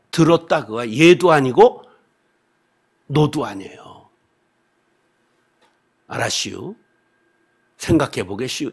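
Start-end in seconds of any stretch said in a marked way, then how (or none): 6.1-8.7 "알았시요" said lightly in Chungcheong dialect, rising at the end; a villager politely putting the preacher off, Chungcheong style; evasive Chungcheong reply. Retold or imitated. Villager hedging to the preacher, mild Chungcheong dialect. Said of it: "이런 뜻이야".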